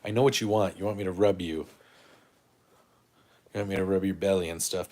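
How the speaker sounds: loud doting pet talk. Real, not acted. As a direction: coo at the dog about belly rubs. Talking to dog wanting rubs.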